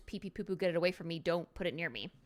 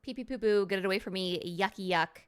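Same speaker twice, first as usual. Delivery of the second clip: disgusted rating; 2 semitones lower than usual. Shown as a demonstration. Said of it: "scale of one to five".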